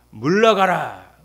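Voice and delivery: slow, loud rebuke, drawn out; thunderous preacher's command; commanding shout. Acted. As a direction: command it to leave with full force.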